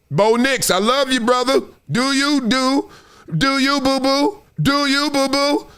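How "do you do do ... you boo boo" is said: teasing doubt. Acted. Teasing Bo Nix.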